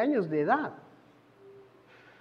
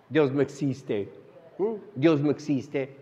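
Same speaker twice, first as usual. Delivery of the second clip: much lower, slow mock conviction; mock atheist voice; 8 semitones lower, 4 dB quieter than usual. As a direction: drop low and slow, aping a young philosopher. Mocking his atheist student self.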